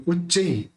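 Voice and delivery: उच्चई said with a clear final ई, uch-cha-ee; correct reading. Shown as a demonstration. Teacher correcting students, उच्चई with final ई. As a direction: spell out उच्चई as three syllables ending in ई. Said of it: "तो उच्चई बोलेंगे".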